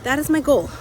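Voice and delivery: hyped up and determined; excited. Real, not acted. Excited announcing goal.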